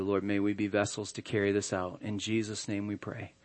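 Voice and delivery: earnest, hushed closing prayer. Acted.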